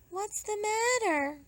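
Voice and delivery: high, soft friend asking; Milagros. Acted. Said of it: "she asked".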